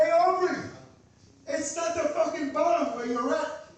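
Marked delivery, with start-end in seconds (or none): 0.0-0.6 loud call to a rapper. Real, not acted. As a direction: shout his name. Calling out a rapper.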